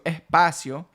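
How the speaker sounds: "espacio" as "ehpacio", S breathed out as h; aspirated S. Shown as a demonstration. Teacher pointing out the aspirated Caribbean S. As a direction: soften the S to a breath. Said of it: "instead of espacio".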